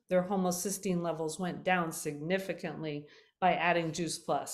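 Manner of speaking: hoarse, fading voice; losing voice. Real, not acted. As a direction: voice giving out. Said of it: "I'm losing my voice here".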